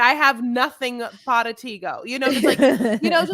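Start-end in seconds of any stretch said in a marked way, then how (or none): 0.0-2.0 put-on mangled Spanglish in an American accent; deliberately horrible Spanish. Imitating a man's language struggle for the co-host, in mock bad Spanish. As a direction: tack clumsy Spanish onto English. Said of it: "horrible Spanish".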